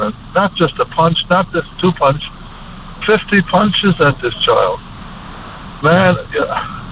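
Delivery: real tears rising, voice climbing and cracking; fighting back tears, breaking on man; choked up. Real, not acted. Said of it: "I'm emotional here, but I'm choked up".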